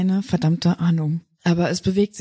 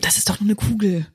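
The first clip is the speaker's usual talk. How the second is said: whisper. Acted. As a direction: breathe it, no voice. Whispered to the creature.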